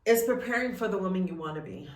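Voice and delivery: rushed, breathy words as tears rise; pushing the line out fast through sudden tears; tearful rush. Real, not acted. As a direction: voice cracking into a fast whisper. Breaks down mid-sentence.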